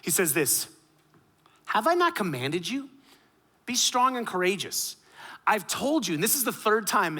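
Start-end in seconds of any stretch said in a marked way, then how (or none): 1.6-7.2 higher-pitched, insistent command; acted-out emphatic encouragement; firm pep talk. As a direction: imitate God urging a nervous leader on. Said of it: "God says to give Joshua a little bit of a pep talk".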